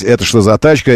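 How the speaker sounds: ordinary talk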